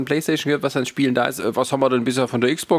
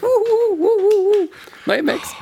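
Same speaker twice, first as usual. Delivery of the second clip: high mock woohoo; sarcastic cheer; 4 dB louder than usual. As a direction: fake excited whoop, dripping sarcasm. Mock cheer about Apple.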